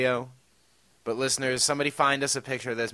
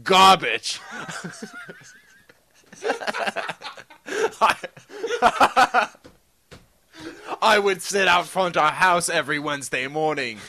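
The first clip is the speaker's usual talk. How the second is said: put-on British accent. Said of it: "I'll read this one in British voice".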